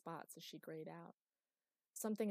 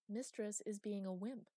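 imperious; 3 semitones higher than usual. Acted. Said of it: "said Chloe imperiously".

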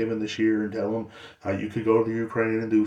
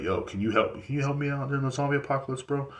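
higher, quick begging ask; pleading for help; 5 semitones higher than usual. Retold or imitated. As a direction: plead with an ex-soldier friend. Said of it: "I will be like".

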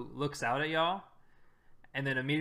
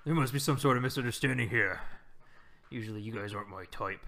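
booming voice; 3 semitones lower than usual. Acted. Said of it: "booming voice".

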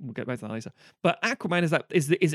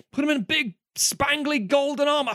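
higher, louder gushing; gushing excitement; 10 semitones higher, 4 dB louder than usual. Real, not acted. Fan raves about Aquaman's golden armor, excited and loud. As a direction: rave about the shiny armor.

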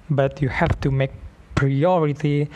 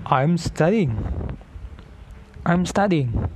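lightly raised candidate voice; high candidate voice; 3 semitones higher than usual. Shown as a demonstration. Showing listeners the candidate's role, high voice. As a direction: answer as a higher-voiced candidate. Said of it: "as a candidate with high voice".

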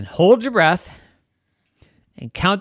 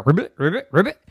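more frog croaks; 3 dB louder, faster than usual. Acted. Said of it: "the neighbor was ribbiting some more".

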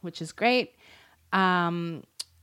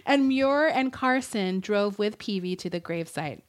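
hushed whisper telling the ghost prank; whispering the next step of the ghost stunt; 2 semitones higher than usual. Real, not acted. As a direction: breathe it out as a whispered aside.

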